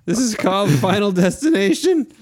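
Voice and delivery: high dramatic trailer announcer; movie trailer voice. Pretend. Friends joking, mock trailer announcer voice.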